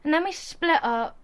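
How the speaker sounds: sheepish and hurt; subdued confession. Acted. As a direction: admit it quietly, deflated. Confessing after the quarrel.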